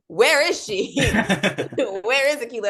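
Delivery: high, slow, laughing through a fan's panic; giggling mock alarm; mock panicked fan. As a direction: play a worried fan, half laughing. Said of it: "people were like".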